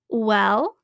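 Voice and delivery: big booming beast voice; huge gorilla voice. Acted. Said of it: "said a huge voice".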